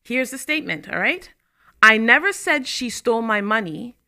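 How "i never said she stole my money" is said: NEVER lifted and louder; NEVER rises in pitch, pushed out; stress on NEVER. Shown as a demonstration. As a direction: lean on the word never. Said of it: "has seven different meanings depending on which word you emphasize".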